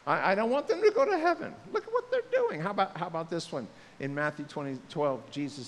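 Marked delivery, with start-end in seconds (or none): 0.1-2.6 mock self-righteous. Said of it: "we go".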